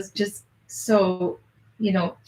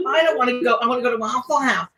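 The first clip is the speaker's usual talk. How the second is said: imitating Frances; 4 semitones higher than usual. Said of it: "she's like".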